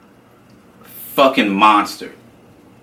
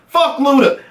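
angry mutter; 12 semitones higher than usual. Retold or imitated. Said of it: "I hear him like".

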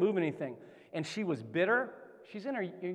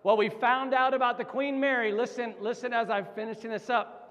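louder, higher, charged restart; energized preacher picking up steam; fired-up preaching; 4 semitones higher, 3 dB louder than usual. Real, not acted. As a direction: relaunch the point all fired up. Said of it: "I'm getting fired up".

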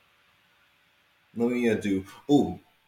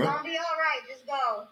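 mock sweet coaxing; faster than usual. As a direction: coo at him like a sweetheart. Voicing soothing advice to thief.

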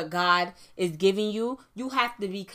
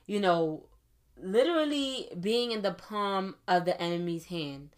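slowed down; slower than usual. Shown as a demonstration. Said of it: "So I'm gonna slow it down".

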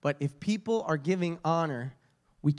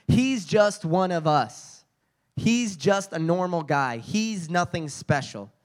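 dismissive scoff; slower than usual. Acted. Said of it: "They were deeply offended".

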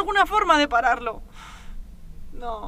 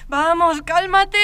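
urging herself; 6 dB louder, slower than usual. Acted. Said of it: "tengo que calmarme".

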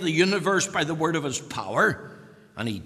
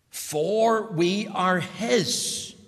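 very slow, each word spaced, "his" weighted at the end; stress on his; 4 semitones higher, much slower than usual. Shown as a demonstration. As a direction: underline "his" by slowing right down. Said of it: "Underline the word his. It's very emphatic".

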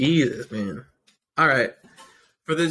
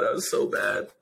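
whispered; 3 semitones lower, 4 dB quieter than usual. Real, not acted. Whispered aside.

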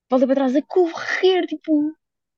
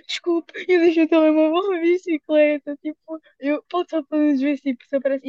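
higher, slow, pleading retelling; slow anxious request to strangers about the lost phone; upset pleading; 5 semitones higher, slower than usual. Retold or imitated. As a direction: replay the desperate ask, a bit hammed-up.

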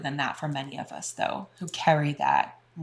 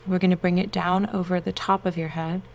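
guided meditation. Acted. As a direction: soothe them into relaxation.

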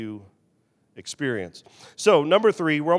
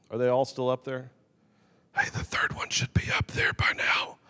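whisper; 5 semitones lower, 4 dB quieter than usual. Real, not acted. Aside to slide operator mid-sermon.

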